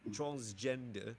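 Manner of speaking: "Transgender" tried slowly in a New Zealand accent, final r dropped; attempted Kiwi "Transgender", slow with open vowels; Kiwi pronunciation. Shown as a demonstration. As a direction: say "Transgender" drawn out, ending in "-duh". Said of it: "How do Kiwis pronounce transgender".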